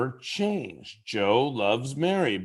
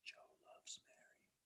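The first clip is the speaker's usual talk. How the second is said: barely audible secret whisper; tiny, hushed whisper; 38 dB quieter than usual. Shown as a demonstration. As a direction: whisper it with no voice at all. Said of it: "say those same three words in a way".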